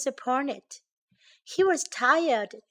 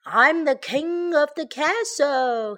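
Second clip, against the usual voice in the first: high, loud little bear boast; triumphant raised voice; shouting; 5 semitones higher, 5 dB louder than usual. A narrator's reading. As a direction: crow it out like a child on top of a rock. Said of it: "he shouted".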